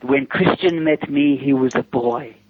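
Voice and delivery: slow, drawn-out seductive quote; lightly voiced slow sultry woman; sultry retelling. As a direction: savour each phrase like a temptress. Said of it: "she said".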